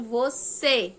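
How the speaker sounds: você slow, weight on final CÊ; stress on the CÊ of você. Shown as a demonstration. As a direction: lean on the last syllable of você. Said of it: "o C foi a fo". (você com ênfase no CÊ final)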